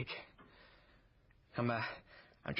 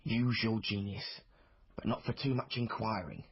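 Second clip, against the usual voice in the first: louder, slow lightly voiced mentor's advice; quoting Mister Treat; 4 dB louder than usual. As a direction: lay out the old man's maxim slowly, a touch grand. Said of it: "What was it Mister Treat said?".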